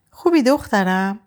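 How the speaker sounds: high, fond auntie voice; affectionate greeting. A narrator's reading. Aunt Maryam asks Ava after hugging her, affectionate.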